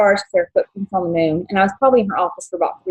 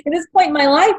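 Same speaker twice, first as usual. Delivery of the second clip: getting emotional; 9 semitones higher than usual. Real, not acted. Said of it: "I'm getting emotional".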